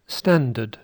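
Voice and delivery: standard with no R, second syllable a schwa; British standard. Shown as a demonstration. Teacher modelling for learners to repeat, British standard without the R. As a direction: say standard as STAN-duhd, R silent. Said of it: "notice here that I say standard".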